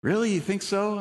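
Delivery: surprised. Retold or imitated. Girl surprised by his reassurance.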